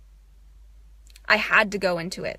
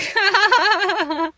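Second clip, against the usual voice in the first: higher laughing burst; 9 semitones higher, 3 dB louder than usual. Real, not acted. About her apology habit: higher laugh.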